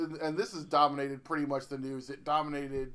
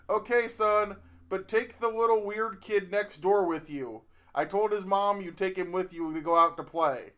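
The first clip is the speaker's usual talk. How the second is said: mildly raised mom voice; lightly acted mother calling back; mock yell back; 3 semitones higher than usual. Mother sending son off with the neighbor kid, mock yell back. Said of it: "Missus Okada yells back".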